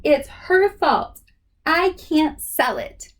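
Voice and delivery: a kid blaming, hammed up; indignant. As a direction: stamp each word down. Continues yelling at mom.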